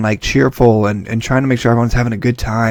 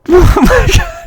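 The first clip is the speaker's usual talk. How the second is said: very high squeaky oh my God; high shrieking reaction to the game; shocked squeal; 4 dB louder, slower than usual. Real, not acted. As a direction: squeak it out in disbelief. Reacting to Sayori's line.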